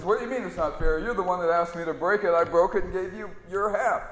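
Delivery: lightly voiced conniving straight man; shifty straight man. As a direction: brush off the complaint like a con man. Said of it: "straight man says".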